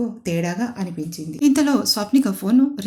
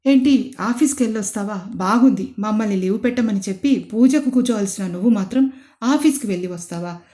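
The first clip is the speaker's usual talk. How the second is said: snapping scold; 2 semitones higher, 5 dB louder than usual. Acted. Mother-in-law angrily scolding her for going to office. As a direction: lash out at the daughter-in-law. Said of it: "అని గయ్యమని అడిగింది".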